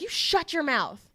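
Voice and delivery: high, slightly slowed mock retort; imitated angry retort. Podcaster voices the customer rebuking a woman in line, mock angry. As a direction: act out an irate man silencing someone. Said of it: "starts yelling at him".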